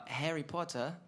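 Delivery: playful British accent. Shown as a demonstration. Band member answers host's accent challenge, playful British accent. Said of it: "Who can do a British accent?".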